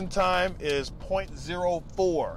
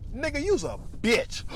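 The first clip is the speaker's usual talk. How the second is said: fighting words; 8 semitones higher than usual. Shown as a demonstration.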